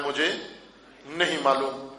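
low, soft, unbothered answer; calm reply. Retold or imitated. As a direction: quote it quietly, pitch dropped and matter-of-fact. امام کا وہی پرسکون جواب. (دھیمے، پرسکون لہجے میں)

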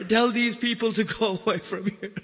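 soft, choked-up dying father's request; grieving plea. Acted. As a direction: let the plea sink away, nearly breaking. Dying father's plea, retold in lament.

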